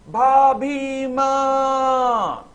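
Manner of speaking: long, drawn-out high shout; loud cry. Acted. Jai leaping into the burning house, shouting for his sister-in-law. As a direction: call out desperately as he leaps into the fire. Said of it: "जोर से बोला".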